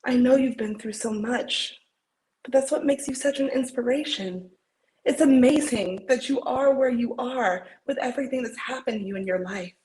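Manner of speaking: earnest pep talk, acted with feeling; heartfelt dramatic encouragement; audition monologue. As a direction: insist on their worth, building from gentle to emphatic.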